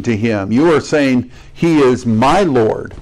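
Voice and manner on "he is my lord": slow, deliberate stress on "my"; personal declaration. Acted. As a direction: claim him with weight on "my". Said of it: "You're not just identifying him".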